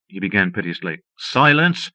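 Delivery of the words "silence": loud high snarl. A narrator's reading. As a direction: snarl it at him. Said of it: "the woman snarled".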